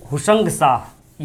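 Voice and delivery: हुसंग शाह spelled out slowly for notes; drawn-out हुसंग शाह, word by word; slow dictation. Shown as a demonstration. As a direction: say हुसंग शाह slowly so students can write it.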